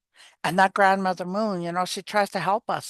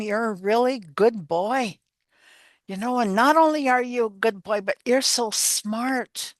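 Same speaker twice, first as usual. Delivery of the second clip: slow praise; 3 semitones higher than usual. Retold or imitated. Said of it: "I would tell him".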